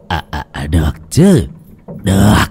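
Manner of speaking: low, lightly voiced old lecher nodding along; a hint of a sly old man agreeing; eager old man. Old healer Găm eagerly accepting the woman's offer, low and sly.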